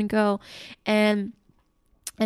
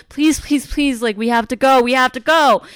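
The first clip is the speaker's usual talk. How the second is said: mock pleading, louder by the end; retold urgent pleading; 2 semitones higher, 5 dB louder than usual. Aunt begging the dead moped to start, urgent retold plea. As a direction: beg it along, building in urgency. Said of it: "And now she's like".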